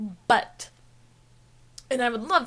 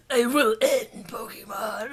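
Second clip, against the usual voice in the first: slow whispery villain pronouncement; a hint of a solemn, breathy menace; mock philosophical; slower than usual. Imitating Mewtwo's speech in the first movie, mock philosophical. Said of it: "like, philosophical".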